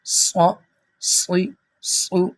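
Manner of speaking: صو، صی، صو with a thick, heavy s; short separate syllables, each s in صو full and heavy; full heavy sound. Shown as a demonstration. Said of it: "موٹی آواز ہونی چاہیے". (موٹی آواز والا صاد)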